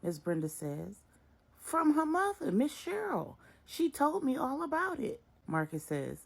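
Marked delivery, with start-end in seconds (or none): 1.6-5.2 higher, louder, pointed; stern revealing mother. A narrator's reading. Miss Brenda confronts Marcus about his affair, stern. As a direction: lay out the hard truth.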